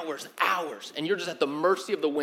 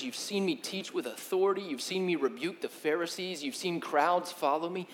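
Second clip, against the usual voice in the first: soft, steady, gently reproachful; quiet reminder; 5 dB quieter than usual. Retold or imitated. Jesus gently reminding disciples of his miracles, quietly. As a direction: remind them quietly what they have seen. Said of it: "he's kind of pointing back".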